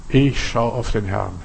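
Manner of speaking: slow, soft inner vow; quiet affirmation. Shown as a demonstration. Believer quietly repeating the vow, slow and soft. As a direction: say it to yourself in calm trust. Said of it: "beginnt mit unserer Vorstellung".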